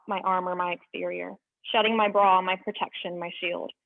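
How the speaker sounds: deliberate spoken-word delivery of her own poem; poem reading. Acted. Sharing her own poem Laundry Day, measured spoken word.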